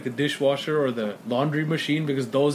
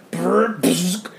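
light brrr then bzzz buzz; imitated buzzing. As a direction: mimic sparking transformers. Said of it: "as I was watching it".

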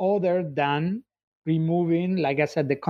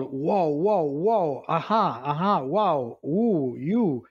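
awed gasps; much slower than usual. Acted. All react in awe.

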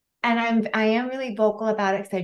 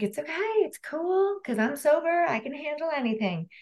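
mock reassurance; 8 semitones higher than usual. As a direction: reassure them lightly, voice pitched up and softened. Retelling her reassurance to alarmed friends.

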